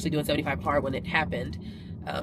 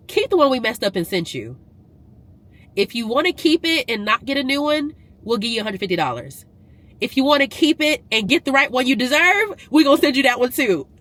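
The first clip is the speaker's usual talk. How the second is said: higher and louder, building to a laugh; rising excitement; 5 semitones higher, 3 dB louder than usual. Real, not acted. Vlogger explaining free treadmill to viewers, building excitement. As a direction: let the joy climb up to the laugh. Paraphrasing the company email excitedly.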